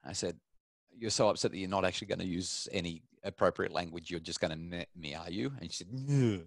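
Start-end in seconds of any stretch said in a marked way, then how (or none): 1.0-5.5 softly retold fatherly challenge; quiet disbelief. Father retells reply to moody daughter. 5.9-6.4 imitated sulky, higher-pitched grunt; moody nonverbal child. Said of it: "she was nonverbal".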